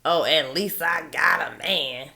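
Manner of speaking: slow, lightly put-on silly woman voice; mock goofy woman. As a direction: mimic a naive woman, slowly. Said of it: "any old goofy female that says things like".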